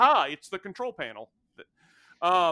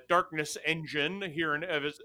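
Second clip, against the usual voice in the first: normal talking voice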